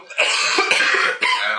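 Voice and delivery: coughing through the words. Real, not acted. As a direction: talk right after a cough. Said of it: "Why am I coughing?".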